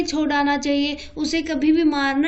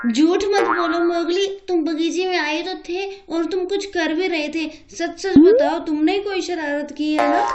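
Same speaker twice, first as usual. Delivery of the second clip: accusing; 2 semitones higher than usual. Acted. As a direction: push him to own up. Sister accuses brother of lying.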